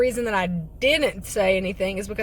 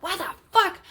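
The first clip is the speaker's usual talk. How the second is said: shocked disbelief; 10 semitones higher than usual. Retold or imitated. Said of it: "I was like".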